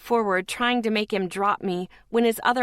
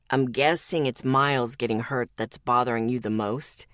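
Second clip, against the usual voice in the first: Zeke, gentle question; 9 semitones lower than usual. Acted.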